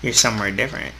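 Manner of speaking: story narration. Acted. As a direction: read it like an inner monologue, unhurried. Reads visual novel narration aloud.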